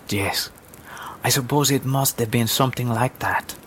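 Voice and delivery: softly, with a breathy first word. Acted. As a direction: answer the child softly. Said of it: "the woman said softly".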